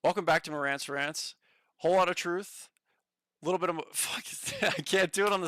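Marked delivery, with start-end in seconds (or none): 0.0-3.8 a touch louder, lightly voiced host intro; mock show opener, trailing into a laugh; Marantz impression. Third try at Marantz's intro for chat, light impression. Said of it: "Let me formulate it real quick".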